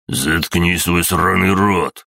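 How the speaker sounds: slow, furious outburst; exploding in anger. Acted. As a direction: bite out each word in rage. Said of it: "взорвался Ингвар".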